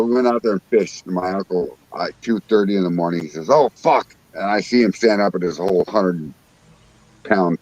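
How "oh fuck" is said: higher-pitched mock alarm; retold alarm. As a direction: act out the uncle's startled curse, lightly. Uncle's alarmed cry in fishing story.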